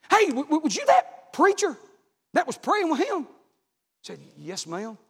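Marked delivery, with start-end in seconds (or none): 0.1-3.2 tag. Retold or imitated. Nurse calls after departing preacher. 4.4-5.0 low, very soft answer; subdued reply. Retold or imitated. Dejected preacher answers the nurse.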